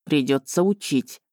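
low, weary resigned words; heavy sigh. A narrator's reading. Dragon resigns himself to teaching her, with a heavy sigh. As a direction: say it like a burden you can't escape. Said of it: "тяжко вздохнул он".

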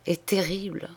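voiceless whisper. Acted. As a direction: say it under the breath. Confession drops to whisper. (chuchoté, sans voix)

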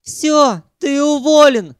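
high, loud shout. A narrator's reading. Sanyok screaming at Ukhan that he's fired. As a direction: scream the firing at him. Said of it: "закричал Санёк".

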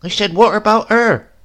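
put-on high, loud prying old woman; prying grandmother. A narrator's reading. Grandmother quizzes Silas about the bride, high and loud. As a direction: press him about the girl.

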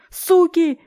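высокий громкий крик; выкрикни в слезах; отчаянный крик. A narrator's reading. Героиня кричит в отчаянии. (отчаянный высокий выкрик)

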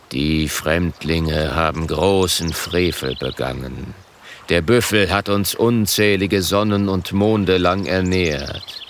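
grave, slow elder warning; a stern, earnest chief; serious. Acted. Grüne Leuchte warnt den Rat ernst. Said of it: "mit ernster Stimme".

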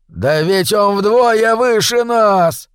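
slow, high moaning wail; drawn-out high groan of dread. A narrator's reading. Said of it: "простонал Хнык".

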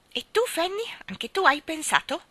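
high, sharp little voice, menacing; shrill little voice. Acted. Old mother interrogates her other daughter shrilly. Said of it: "La vocetta acuta".

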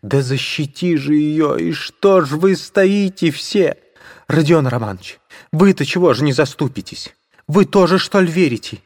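very high, furious cry; shouting at everyone. Acted. Katerina berating the onlookers, shrill furious cry. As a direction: berate the crowd.

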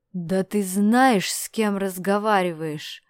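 slow, loud menacing roar. Acted. Askold roaring at Dmitry as he transforms, slow loud roar. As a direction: bellow the threat slowly. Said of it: "взревел он".

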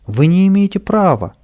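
high loud protest, stress on «не»; indignant shout. Acted. Pavlik shouting at the sergeant, indignant loud protest. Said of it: "И Павлик закричал".

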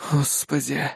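low-energy, soft resigned exhale; doomed sigh. A narrator's reading. Man watching the bartender squeal, sighing in resignation. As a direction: breathe it out in resignation. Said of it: "обречённо выдохнул я".

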